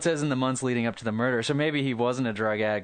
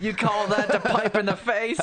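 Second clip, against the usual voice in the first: 1 mocking old mother; 8 semitones higher than usual. Voicing mother mocking killer.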